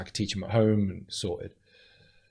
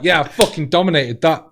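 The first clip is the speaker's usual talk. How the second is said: smug gloating; 5 semitones higher, 8 dB louder than usual. Retold or imitated. Campbell voiced gloating.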